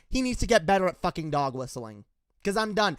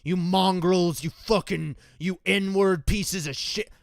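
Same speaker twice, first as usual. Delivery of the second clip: slow, louder mock racist insults; imitating a racist; 4 dB louder, slower than usual. Vlogger imitating a racist's slurs, slow and louder. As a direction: lean on each slur, slowly. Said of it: "yeah, whatever".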